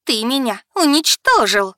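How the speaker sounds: loud, high, wounded cry; с отчаянием; anguished accusation. Acted. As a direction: blame him for ruining her. Becky accuses Simon.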